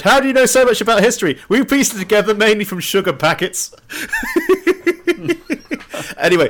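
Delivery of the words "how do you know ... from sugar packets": Grandpa Simpson. Retold or imitated. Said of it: "as Grandpa Simpson said".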